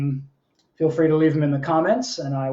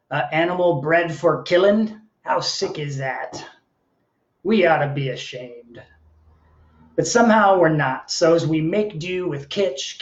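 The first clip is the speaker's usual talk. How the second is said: measured, performed poem with lilting phrases; poetry reading. Acted. Poet reading to an online audience, performed delivery. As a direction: read it as a live poem, line by line. Reads own poem aloud.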